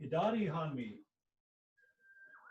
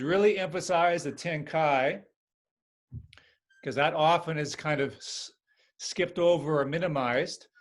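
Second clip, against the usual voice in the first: raised teaching voice; 7 dB louder than usual. Real, not acted. Instructs class over noise.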